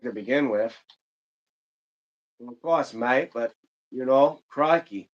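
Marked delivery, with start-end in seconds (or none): 2.5-3.3 half-hearted Australian accent; bad Australian accent. Shown as a demonstration. Streamer joking about Australians and Brits, bad Australian accent. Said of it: "I'm not good with Australian, uh, accents". 4.5-5.1 amateur Aussie exclamation; bad Australian accent. Shown as a demonstration. Streamer joking about Australians and Brits, bad Australian accent. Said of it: "I'm not good with Australian, uh, accents".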